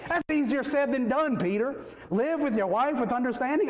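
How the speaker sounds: high mock protest from a doubtful husband; tossing the objection back, a touch indignant; imitating a skeptical husband. Husbands in the pews pushing back at the preacher, mock protest. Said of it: "I know the pushback".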